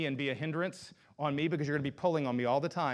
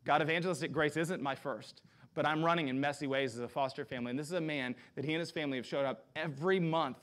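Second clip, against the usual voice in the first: heartfelt spoken prayer. Acted. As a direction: pray for him in front of the church. Leads prayer over Billy.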